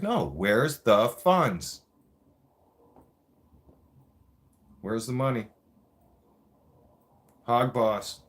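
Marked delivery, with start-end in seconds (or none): 0.0-5.5 drawn-out, pressing question; slow insistent demand. Retold or imitated. Poilievre pressing Fergus, slow and insistent. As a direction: drag out each word, insisting. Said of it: "He's like".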